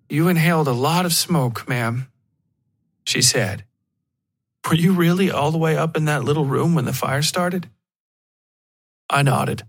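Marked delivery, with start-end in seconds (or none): 0.1-2.1 a hint of a brisk paramedic; crisp, direct paramedic; lightly voiced medic, businesslike; clipped, professional. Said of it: "Her words were clipped, direct, and professional". 4.7-7.7 a hint of a brisk paramedic; crisp, direct paramedic; lightly voiced medic, businesslike; clipped, professional. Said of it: "Her words were clipped, direct, and professional".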